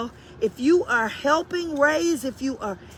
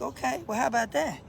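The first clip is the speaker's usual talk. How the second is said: softer, understated reply; retold concession; 6 dB quieter, faster than usual. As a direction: act out quietly taking it in. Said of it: "I was like".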